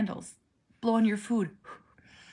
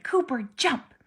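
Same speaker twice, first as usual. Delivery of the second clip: calling out; 6 semitones higher, 4 dB louder than usual. Retold or imitated. Mom coaxing son to jump.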